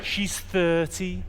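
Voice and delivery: stretched-out comic Scouse; mock-authentic Scouse patter; Scouse accent. Shown as a demonstration. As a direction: play it up in broad Scouse. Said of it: "say something properly, authentically Scouse".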